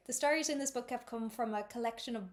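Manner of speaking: quick, amateur Irish reading; attempted Irish accent. Shown as a demonstration. Reader attempting the note on names, quick amateur Irish accent. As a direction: read briskly in an uncertain Irish accent. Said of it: "read that page in my best Irish attempt".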